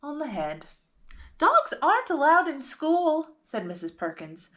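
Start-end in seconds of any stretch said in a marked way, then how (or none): 1.4-3.3 high, firm teacher's rule; a schoolteacher sternly saying no. A narrator's reading. Teacher forbids dog, read aloud.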